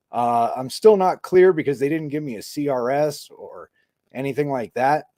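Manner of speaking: holding back a shiver in the voice; speaking while freezing, fighting the shiver; shivering from cold. Real, not acted. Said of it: "trying not to have, like, the shiver voice".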